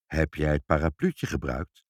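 low, monotone stern father. A narrator's reading. Father questioning child about the umbrella, stern. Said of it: "keek Ibbeltje streng aan en zei".

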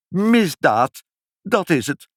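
high-pitched aggrieved wail. A narrator's reading. Pinkepank protesting the crime against him, high wail. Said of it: "huilde meneer Pinkepank".

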